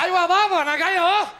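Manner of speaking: loud answering call. Acted. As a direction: call back to dad. Kid calls out to father.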